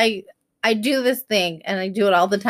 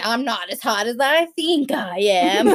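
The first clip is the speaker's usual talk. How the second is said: mock indignation tipping into laughter; lightly sarcastic retort with a laugh; mock offended. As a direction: play wounded pride, amused.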